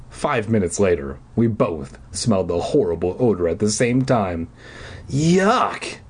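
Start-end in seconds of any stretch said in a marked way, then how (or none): 5.1-6.0 disgusted groan. A narrator's reading. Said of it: "Elliot groaned".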